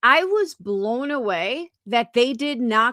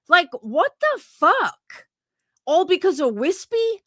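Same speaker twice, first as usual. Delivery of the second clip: angry; 7 semitones higher than usual. Real, not acted. Indignant at the panelist.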